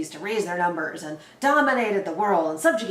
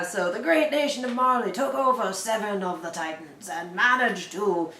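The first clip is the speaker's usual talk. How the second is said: narrator voice. Acted. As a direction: tell it like an old fantasy narrator. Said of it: "I'm in this narrator voice, because this is my bullshit history voice".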